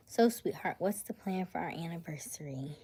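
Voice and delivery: calling out to her man, playful; teasing call. Real, not acted. Teasing partner on stream.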